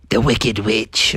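low, slow, ominous name drop; hushed-drama announcement, stretched out; dramatic reveal. Acted. Froggy's dramatic pick reveal.

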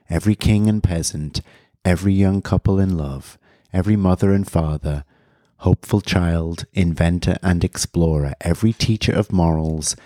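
measured, reflective reading voice; reading a passage aloud. Acted. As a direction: read it like a solemn recital. Reads Sagan passage aloud.

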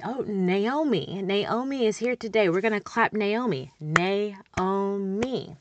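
slow, sing-song preschool teacher. Shown as a demonstration. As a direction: greet the child by name, clapping it out. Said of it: "I'll say".

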